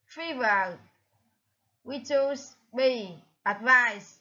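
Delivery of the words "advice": advice stressed on VICE; second-syllable stress. Shown as a demonstration. Teacher gives the answer, advice stressed on the second syllable. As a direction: hit the last syllable of advice. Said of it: "nhấn ở âm hai".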